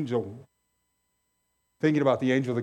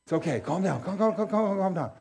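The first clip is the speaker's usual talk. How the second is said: calming angel. Retold or imitated. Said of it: "Imagine an angel sitting there".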